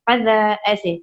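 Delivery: फज़ा with the ज़ा vowel lightly lengthened; slightly stretched a. Shown as a demonstration. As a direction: stretch the second a of फज़ा a little. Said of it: "थोड़ा सा हल्का सा खींचेंगे".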